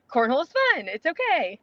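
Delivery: lightly imitating an encouraging teammate; Rosie. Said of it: "such a spot on Rosie impression".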